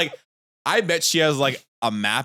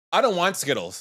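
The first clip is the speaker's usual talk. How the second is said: put-on blunt child's refusal, raised; blunt kid; 5 semitones higher than usual. Son refusing candy at the door, blunt childish refusal. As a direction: say it flatly like a picky kid. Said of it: "looks at her and goes".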